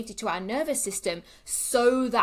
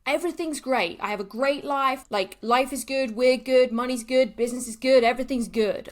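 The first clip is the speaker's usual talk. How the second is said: bewildered rant; 3 semitones higher, 4 dB louder than usual. Retold or imitated. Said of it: "I was like".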